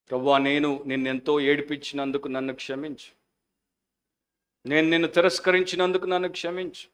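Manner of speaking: model prayer. Acted. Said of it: "అని ప్రార్థన చేసుకుందాం".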